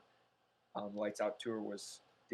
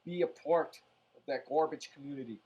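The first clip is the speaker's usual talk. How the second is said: emphatic warning; 3 semitones higher, 10 dB louder than usual. Real, not acted. Urging viewers, emphatic warning.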